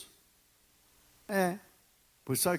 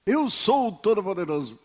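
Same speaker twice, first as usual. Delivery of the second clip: mock divine voice; 4 semitones higher, 7 dB louder than usual. Voz de Deus imitada.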